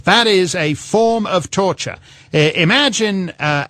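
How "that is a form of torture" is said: mock outrage. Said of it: "And you say".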